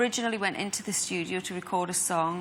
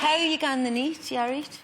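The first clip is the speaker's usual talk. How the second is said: loud, higher Geordie greeting; broad Geordie hello shouted to a crowd; Geordie phrase; 5 semitones higher, 4 dB louder than usual. Shown as a demonstration. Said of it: "useful phrase you could teach Katie".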